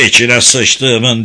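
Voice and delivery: slow, loud curse; shouted curse. Acted. Guard Fred cursing at the sight of the cell, slow loud shout. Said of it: "diye bağırdı Fred".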